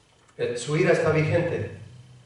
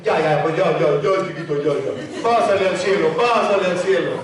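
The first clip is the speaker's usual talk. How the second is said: indulgent soothing; 3 dB louder than usual. Retold or imitated. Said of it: "que te va a decir".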